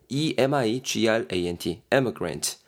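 한 글자씩 느리게 또박또박 철자 불러주기; 받아 적게 천천히 철자 읽기. Shown as a demonstration. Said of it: "철자를 천천히 불러줌". (철자를 아주 느리게 한 자씩)

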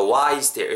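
"Why is there" with the two i sounds merged; linked sounds. Shown as a demonstration. Teacher showing merged vowels, "Why is there" linked. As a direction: glide "Why" into "is" without a break. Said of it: "한 개를 발음 그냥 안 한다고".

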